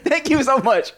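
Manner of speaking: high-pitched, laughing mock thanks; mock grateful relief. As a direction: squeal thanks as the relieved caller. Repeating the grateful caller's thanks, laughing.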